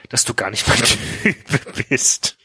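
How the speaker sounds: slow down as laughter takes over; real laugh interrupting the reading; breaking into laughter. Real, not acted. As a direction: struggle to finish through laughing. Reader cracks up mid-quote.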